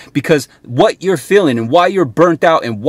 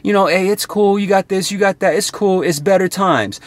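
mock comforting friend; 4 semitones higher than usual. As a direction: mimic the buddy who only tells you fluff. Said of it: "all that fucking love shit".

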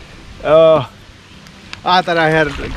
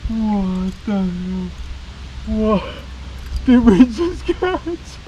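amazed excitement; 5 semitones higher than usual. Real, not acted. Landing a monster bass.

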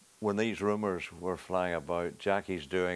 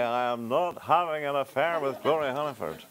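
mock town-crier declaration, raised pitch; megaphone announcement; 6 semitones higher than usual. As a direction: proclaim it as if through a megaphone. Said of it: "a megaphone and say".

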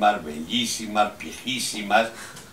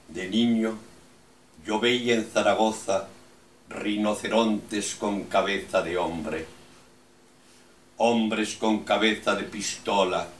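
incantatory list in steady, even tones; measured, insistent verse reading; poem recitation; slower than usual. Acted. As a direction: declaim each image, then leave a pause.

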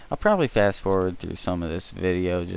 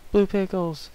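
much higher, louder squeak of disbelief; shocked; 12 semitones higher, 7 dB louder than usual. Acted. Friend can't believe the blue pickles, high shocked squeak. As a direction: yelp it in disbelief. Incredulous repeat.

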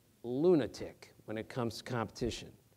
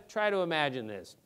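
usual speaking voice

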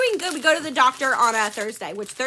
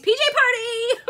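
laughing exclaim; 11 semitones higher, 4 dB louder than usual. Real, not acted. Joking about late live.

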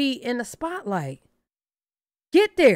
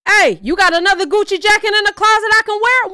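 mock begging friend; 9 semitones higher, 7 dB louder than usual. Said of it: "and that nigga walked up".

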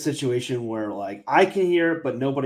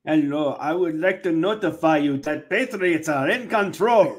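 put-on Indian accent, earnest announcement; lightly hammed-up Indian-accented notice; mock Indian accent; 4 dB louder than usual. Imitating the Trump-loving reply guy in an Indian accent. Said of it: "almost do my Indian accent".

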